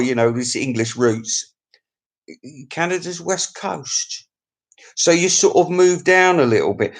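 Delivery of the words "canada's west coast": "Canada's West Coast" read out slowly and softer; slowly repeating. Shown as a demonstration. Vlogger reading out a viewer's location slowly.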